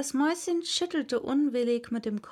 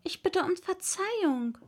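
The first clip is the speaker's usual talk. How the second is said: humble; 8 semitones higher than usual. A narrator's reading. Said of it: "sagte Alice sehr bescheiden".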